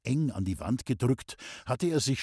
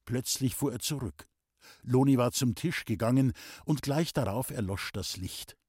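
ordinary delivery

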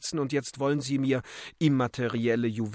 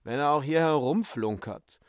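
higher, slowed, peeved lady; Euphemia; 4 semitones higher than usual. Acted. Euphemia complains about dead Böhm in a higher, haughty voice.

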